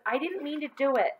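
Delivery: put-on high-pitched boy pleading innocence; pleading, high schoolboy excuse; protesting. A narrator's reading. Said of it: "John protested".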